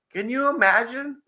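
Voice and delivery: laughing. Real, not acted. Laughing at giant crabs.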